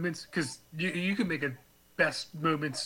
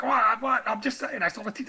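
mock Dave defending; 6 semitones higher than usual. Friend mimicking Dave caught peeking, higher innocent protest. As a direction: play innocent and indignant. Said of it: "He's like".

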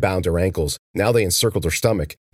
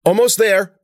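high, loud effortful encouragement; straining call; 12 semitones higher, 6 dB louder than usual. A narrator's reading. Ben encouraging Cece as they hack the opening.

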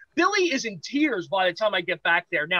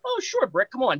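breezy yes; 6 semitones higher than usual. Retold or imitated. Agreeing to Brick's ride, mock cheerful.

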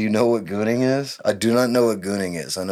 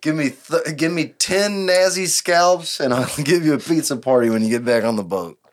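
mock commander rally; 5 semitones higher than usual. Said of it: "what do you tell the troops".

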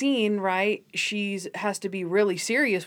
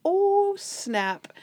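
Oh jumps much higher, snap drops back; a quick impressed Oh, then a flat snap; mock excited; 11 semitones higher than usual. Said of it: "I was like".

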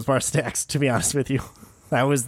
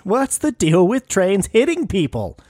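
high, slow mock stand-up delivery; badly faked comedian, pitched way up and stretched; horrible Seinfeld; 8 semitones higher, 4 dB louder than usual. Guesser joining the host's comic riff, exaggerated comedian voice. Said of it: "That was a horrible Seinfeld".

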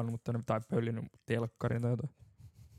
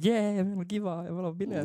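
mock cheer; 8 semitones higher than usual. Mocking cheerful party talk.

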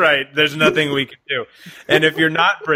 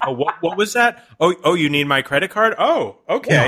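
mock-dazed buyer, pitched up at the start; entranced; 5 semitones higher than usual. Customer entranced by an accent agrees to pay, mock-dazed. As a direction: play someone lightly hypnotized and easily persuaded. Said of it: "put them in a trance".

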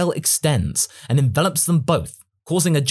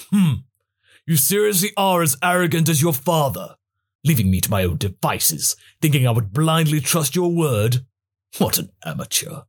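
scornful prince, fading to a breathy sneer; smirking Vegeta voice; 3 semitones higher than usual. Acted. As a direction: look down on him and smirk.

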